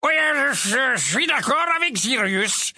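put-on high, halting sleepy old rogue; sleepy grumble. Mondingus waking up at the table, groggy. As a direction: stumble awake, confused.

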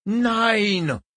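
high, sharp cry of refusal; sharp German outburst. A narrator's reading. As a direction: blurt the German no. Willy bursts out in German.

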